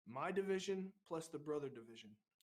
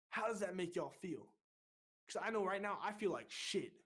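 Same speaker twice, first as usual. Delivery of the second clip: retold rousing speech, swearing with force; fired-up pep talk. Recruit leader rallying his beaten division, fired up. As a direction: re-enact rallying the troops, punching the key words.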